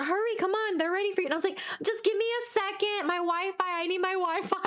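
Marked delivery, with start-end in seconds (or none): 0.0-1.3 high, pushy staff voice; mock insistent summons; imitated impatient urging. Imitating staff rushing her. 1.8-4.6 high-pitched pleading for time; whiny retold plea; mock freaking out. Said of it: "I'm freaking out".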